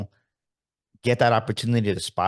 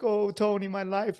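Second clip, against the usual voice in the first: mock self-pity wail; 9 semitones higher than usual. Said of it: "he was like".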